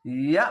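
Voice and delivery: "ইয়া" cut off with a sharp glottal catch; jolted hamza stop. Shown as a demonstration. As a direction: punch "ইয়া" and stop it in the throat. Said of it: "ঝোঁক মেরে পড়বেন". ("ইয়া" ঝোঁক মেরে)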